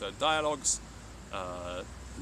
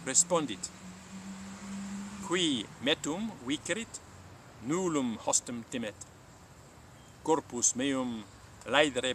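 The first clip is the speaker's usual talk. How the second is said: measured, clear storytelling read; story narration; 2 semitones higher, slower than usual. A narrator's reading. Latin teacher narrating a Buddha legend to listeners, calm storytelling. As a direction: tell the legend slowly and gravely.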